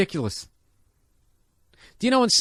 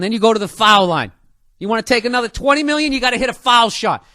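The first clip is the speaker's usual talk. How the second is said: mock game show hype; 3 semitones higher, 5 dB louder, faster than usual.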